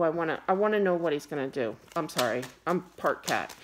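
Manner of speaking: ordinary delivery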